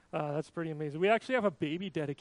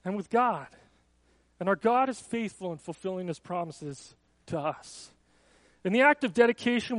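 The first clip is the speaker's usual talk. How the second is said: raised, declarative church-ceremony voice; formal dedication address; 3 semitones higher, 4 dB louder than usual. Acted. Pastor charging parents at a baby dedication, formal address. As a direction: solemnly address the room, projecting a little.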